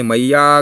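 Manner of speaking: मैया with the final या drawn out; मैया called with a lengthened ending; stretched maiya. Shown as a demonstration. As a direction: hold the आ of मैया long. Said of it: "उसे बहुत ज़्यादा खींचते हैं".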